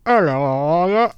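high-pitched mock Australian greeting; Australian accent. Shown as a demonstration. Proving he can do accents, put-on Australian accent. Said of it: "I can sound Australian".

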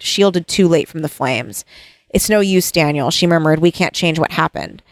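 lightly read-aloud book passage; story reading. Acted. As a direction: read the novel lines gently aloud. Reads novel passage aloud.

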